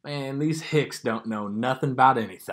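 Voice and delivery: lightly voiced Southern hick; mock backwoods Southern twang; hick Southern accent. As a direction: imitate a dim country accent. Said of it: "some people's Southern accents".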